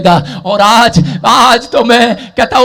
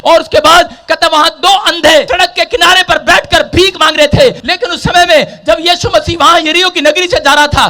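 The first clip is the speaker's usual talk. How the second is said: loud, high-pitched sustained sermon delivery; full-force preaching; 10 semitones higher, 3 dB louder than usual. Acted. Preacher retelling Jericho to the congregation, full-force preaching. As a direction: preach it in a driving, unbroken shout.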